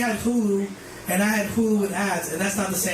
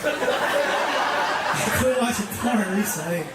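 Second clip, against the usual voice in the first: laughing; 3 semitones higher, much slower than usual. Real, not acted. Slow laughing restart.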